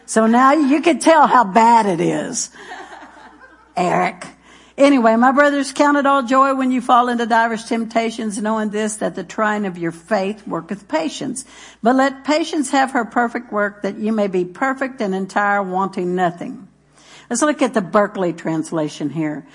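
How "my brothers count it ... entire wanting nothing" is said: measured preaching read of the verse; scripture reading. Acted. Pastor reads James to his church, measured and solemn.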